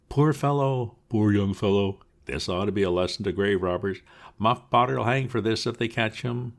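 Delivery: high, loud crowd voices clucking over the body; townsfolk gossip. Acted. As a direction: play the excited villagers at the grave.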